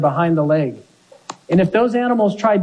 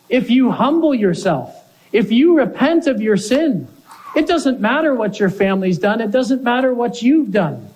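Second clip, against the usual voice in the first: impassioned plea; 5 semitones higher than usual. Retold or imitated. Paul imploring King Agrippa.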